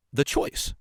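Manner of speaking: "choice" drawn out slowly; stress on "choice". Real, not acted. Host naming today's topic to listeners, stress on "choice". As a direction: lean hard and long on the word "choice". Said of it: "I want to stress that word".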